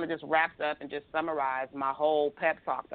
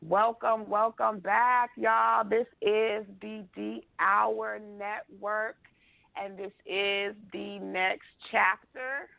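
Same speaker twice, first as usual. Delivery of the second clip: show-opening welcome; 3 semitones higher, much slower than usual. Real, not acted. Opens the show as host.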